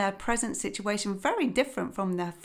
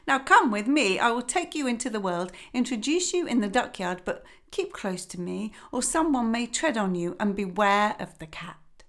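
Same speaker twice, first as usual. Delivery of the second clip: lightly voiced fussy mother duck; a hint of a weary, busy mother; mildly fretful hen voice; 4 semitones higher than usual. Mother duck boasts and leads.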